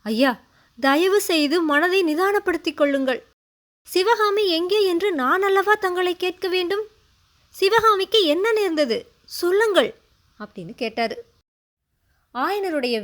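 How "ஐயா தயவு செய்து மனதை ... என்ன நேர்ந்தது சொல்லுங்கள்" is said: dry, tight voice. A narrator's reading. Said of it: "பசையற்ற வறண்ட குரல்ல".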